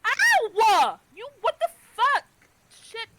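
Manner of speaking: high, loud yelp of real pain. Real, not acted. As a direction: cry out as claws scratch. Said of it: "The cat ran across her foot".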